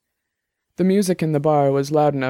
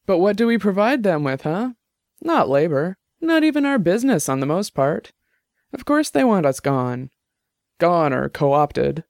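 higher-voiced Jenny, heated and arguing; argumentative tipsy woman; 4 semitones higher than usual. Tipsy Jenny arguing with her roommate's friend, heated. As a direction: push the point hard, a few drinks in.

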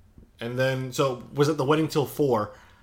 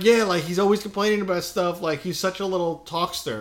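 put-on old lady voice; 7 semitones higher, 3 dB louder than usual. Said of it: "He's like".

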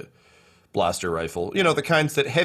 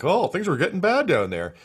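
lightly raised ambient guard line; classic game NPC chatter; 8 semitones higher than usual. Retold or imitated. Guard overheard through a vent, mock game voice. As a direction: toss it off like background video game dialogue. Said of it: "the classic".

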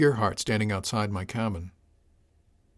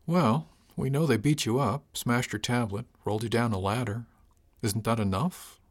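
a touch of gentle, slowed-down coaxing. Acted. Captain coaxing a shaken crewman, lightly gentle. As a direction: ease it out gently, unhurried. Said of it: "I said it gently".

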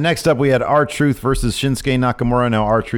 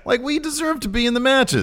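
sincere plea in a much higher-pitched voice; Carmella. Retold or imitated. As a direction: imitate a wrestler's earnest high-pitched appeal. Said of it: "She's very sincere. She's like".

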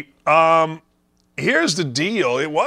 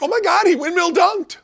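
high, squealing excited woman voice; mock her gushing in a high squeal; Malika Andrews impression; 14 semitones higher than usual. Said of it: "was like".

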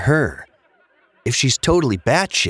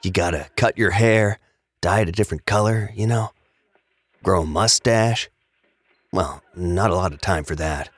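conspiratorial tone; 2 semitones lower than usual. Acted. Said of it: "He suddenly took on a conspiratorial tone".

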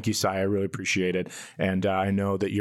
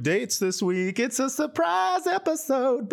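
squeaky high cartoon voice; high silly voice; slower than usual. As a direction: pitch way up, playful. Cold open in silly high voice.

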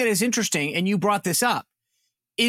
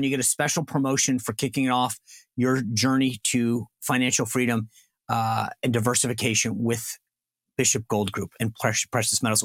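upbeat, lower-pitched pitchman read; live ad read; 7 semitones lower than usual. Acted. Host reading a sponsor ad to listeners, pitchman voice. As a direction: sell it to the listeners like a radio spot.

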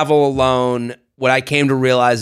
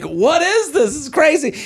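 mock bewilderment; 11 semitones higher than usual. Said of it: "And I'm like".

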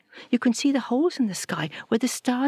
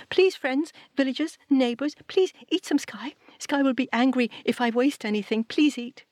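higher voice begging the neighbours; high pleading; 6 semitones higher than usual. Acted. Satu begging villagers to eat, high and pleading.

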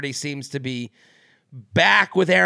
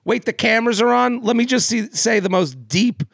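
mock sudden sincerity; 4 semitones higher than usual. Mocking contestant's parent on camera.

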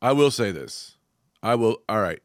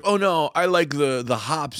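higher, drawn-out beer-snob imitation; mocking high and mighty; slower than usual. Mimicking beer snobs who love hops, high and mighty. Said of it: "act like they're high and mighty".

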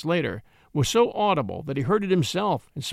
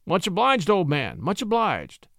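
friendly, easy thanks; affable; 2 semitones higher than usual. Acted. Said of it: "returned Crosby affably".

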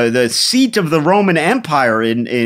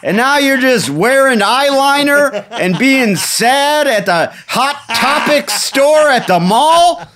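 high, hammed-up indignant ancient warrior; outraged Visigoth; 10 semitones higher than usual. Visigoth scolding modern Goths at the mall, indignant. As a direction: protest in a raised, mock-outraged voice.

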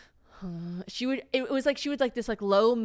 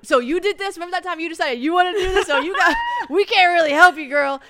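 teasing; 10 semitones higher, 10 dB louder than usual. Retold or imitated. Teasing the mother in labor.

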